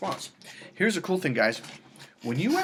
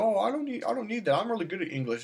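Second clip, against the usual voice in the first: higher, lightly voiced woman brushing it off; mock dismissive woman; 8 semitones higher than usual.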